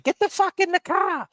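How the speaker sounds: yelling at him. Retold or imitated. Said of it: "And then she's like".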